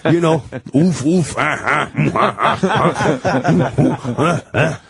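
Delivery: mock laugh in the albino's voice; wheezing laugh in character. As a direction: break into oofs and ahs of laughter. Albino dissolves into laughter in quote.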